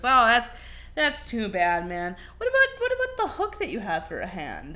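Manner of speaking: lightly voiced bartender. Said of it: "the bartender says".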